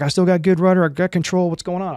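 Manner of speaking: high-pitched, urgent pilot imitation; acted tense cockpit callout; retold urgency. Pilot checks controls after blast.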